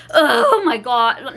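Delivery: slow, drawn-out mock horror "Oh my God"; overdramatic gasp. Retelling the boyfriend's reaction, hammed-up slow horror. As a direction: ham it up, then take it back. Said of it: "Not like that".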